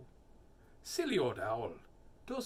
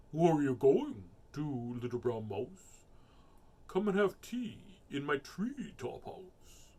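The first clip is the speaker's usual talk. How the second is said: owl voice; 5 dB louder than usual. Acted. Owl voice in story.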